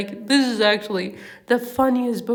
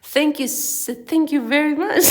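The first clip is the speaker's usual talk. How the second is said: higher voice breaking into laughter; real laughing; 5 semitones higher, 5 dB louder than usual. Real, not acted. Reader attempting Mister Proser's thanks, laughing. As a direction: try to read on, then crack up. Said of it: "I can't stop laughing".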